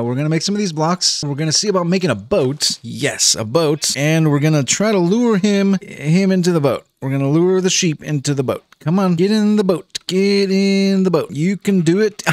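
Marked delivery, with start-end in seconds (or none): 4.0-12.2 high, loud eager coaxing; coaxing the sheep. Real, not acted. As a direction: cheer the sheep into the boat like urging a pet.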